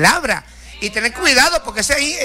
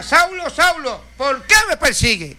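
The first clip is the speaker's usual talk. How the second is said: slow, higher solemn call; voice of Jesus calling; 5 semitones higher, slower than usual. Retold or imitated. Preacher voicing Jesus calling Saul, slow and raised. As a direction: call out slowly like a heavenly voice from above.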